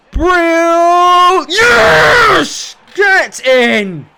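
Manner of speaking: very high, loud shout of joy; ecstatic goal shout. Real, not acted. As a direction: roar the late winner. Last-minute winner scored.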